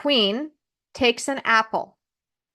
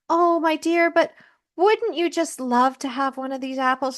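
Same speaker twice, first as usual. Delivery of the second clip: lightly voiced sweet old woman, a touch higher; sweet old peddler; 5 semitones higher than usual. Disguised queen tempts Snow White, lightly voiced sweet old woman. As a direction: coax her with a lightly sweetened old-lady voice. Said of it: "a nice, kindly old peddler woman".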